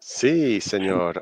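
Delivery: a light mock Spanish accent on Sí, señor; joking Spanish-accent greeting to the co-host. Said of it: "you said that so beautifully".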